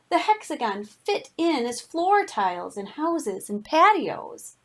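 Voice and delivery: put-on lively read-aloud voice for children; story narration. A narrator's reading. Reads picture book to class.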